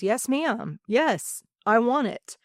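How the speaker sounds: a retold, earnest young yes that swells; eager yes. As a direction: answer your mother, fired up. Answering mom at the table.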